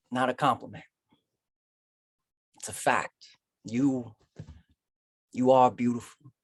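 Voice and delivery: measured lines with long pauses; tender spoken-word poem. Acted. Poet thanking a sweetheart, tender spoken-word.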